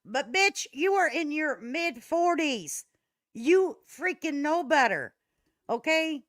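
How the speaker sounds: high, loud scolding rant; angry rant at a streamer; heated rant. Real, not acted. Ranting at Betty.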